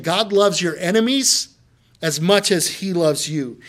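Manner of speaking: enemies lifted, much leaned on; preached emphasis. Shown as a demonstration. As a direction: let them hear every word. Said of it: "put yourself in their shoes and hear that".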